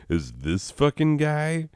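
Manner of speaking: high-pitched imitation of appalled disbelief; incredulous listener. Imagined friend hears about the terrible student, incredulous.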